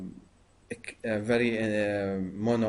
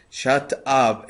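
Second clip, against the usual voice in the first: firm, louder command to hush; loud inner voice; 6 dB louder than usual. Shown as a demonstration. Meditator ordering his inner voice to stop, loud. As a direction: say it loudly, as if silencing your own thoughts. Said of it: "in a very loud, uh, in your voice".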